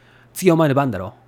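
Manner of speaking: quick standard Tokyo Japanese, ending on "だろ"; Tokyo dialect. Shown as a demonstration. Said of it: "in Tokyo dialect is".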